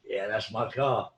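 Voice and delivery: low, slow, pleased with himself; proud and chuffed. Retold or imitated. Young lad answering the girl, proudly chuffed. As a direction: savour the pride. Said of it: "he's really chuffed".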